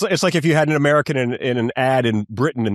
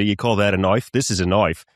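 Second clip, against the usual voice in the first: put-on Crocodile Dundee accent; 5 semitones lower than usual. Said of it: "I apologize for that accent".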